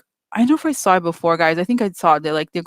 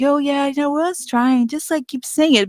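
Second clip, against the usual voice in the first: mock Sheryl; 6 semitones higher than usual. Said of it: "It's sort of like".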